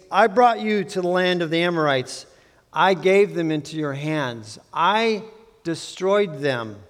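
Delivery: "I" lifted and set apart before "destroyed"; emphasis on I. Shown as a demonstration. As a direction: pause after the stressed "I". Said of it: "with some emphasis on the word "I".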